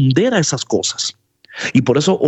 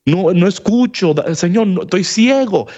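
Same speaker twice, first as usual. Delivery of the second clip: pleading beggar; 4 semitones higher, slower than usual. Acted. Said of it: "se atreven a decir".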